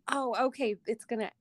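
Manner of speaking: softly retold realization; a touch of surprised acceptance; mild surprise. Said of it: "I was really surprised".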